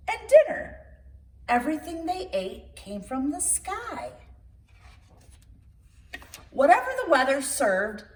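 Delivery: put-on lively read-aloud storytelling for children; storybook reading. Reader telling children a tall tale, lively storybook narration. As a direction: read it like bedtime story time.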